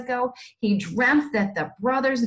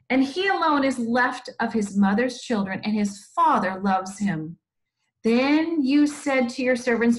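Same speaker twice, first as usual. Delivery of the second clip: slightly lifted, measured Bible reading; scripture read aloud; 2 semitones higher than usual. A narrator's reading. Teacher reading the Bible story to children, expressive scripture reading. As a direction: read it out with deliberate weight on the phrases.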